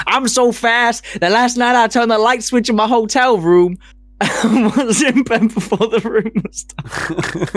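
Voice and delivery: butcher a southern Ali brag, laughing through it; bad Ali accent. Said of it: "I can't do his accent".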